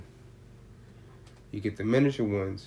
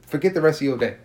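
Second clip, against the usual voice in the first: emphatic; 3 semitones higher, 7 dB louder than usual. Real, not acted. Stressing how strong edibles are.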